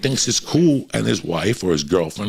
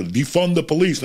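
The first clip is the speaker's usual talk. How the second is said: mock quote; 8 semitones higher than usual. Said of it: "the idiot that said".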